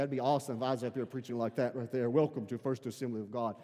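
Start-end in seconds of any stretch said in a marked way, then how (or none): 2.1-3.6 lightly put-on deep preacher voice; a slightly lowered welcome, imitating an African pastor. Pastor wishing he had that voice, mock-deep welcome. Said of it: "he has that deep African voice".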